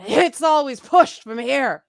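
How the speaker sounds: angry tough chick, loud and slow. Shown as a demonstration. Demonstrating tough guy voice as a woman, loud pushed delivery. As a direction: push it hard from the gut. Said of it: "Uh, that's Vi in, uh, in Arcane".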